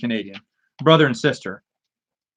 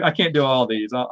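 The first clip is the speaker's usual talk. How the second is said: ordinary talk, nothing marked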